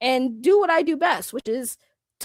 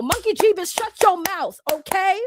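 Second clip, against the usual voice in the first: higher-pitched demo of being mad; mock mad; 4 semitones higher than usual. Shown as a demonstration. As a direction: show them how you scold when mad. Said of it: "that's when you know I'm actually mad".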